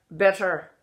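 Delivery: "better" said almost as "bitter"; Irish short E. Shown as a demonstration. Coach showing the vowel, "better" like "bitter". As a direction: raise the E in "better" toward I. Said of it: "Better almost sounds like bitter".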